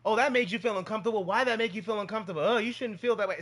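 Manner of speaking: hammed-up prying over-reaction; mocking adult.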